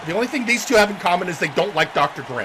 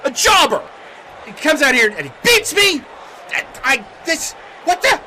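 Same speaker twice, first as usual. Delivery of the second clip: frustrated, higher-pitched rant, stumbling over words; angry wrestler; 6 semitones higher, 5 dB louder than usual. Acted. Beaten wrestler ranting that they deserve a title shot, angry and sputtering. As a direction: burst out and sputter with outrage. Kane rants after losing.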